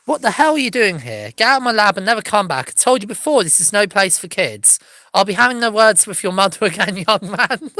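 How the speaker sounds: loud, cross scientist voice; angry scolding. Acted. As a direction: scold the kid out of the lab. Angry scientist shouting at boy.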